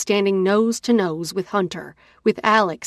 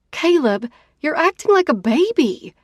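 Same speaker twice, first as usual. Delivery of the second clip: louder, higher shout at his back; 8 semitones higher, 5 dB louder than usual. A narrator's reading. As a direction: yell after him as he leaves. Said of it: "I shout at his back".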